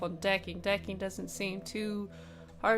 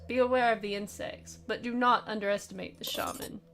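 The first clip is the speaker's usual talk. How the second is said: a hint of a stern German officer; lightly voiced, grave warning, not much accent; attempted German voice. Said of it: "I wish I could do a German accent".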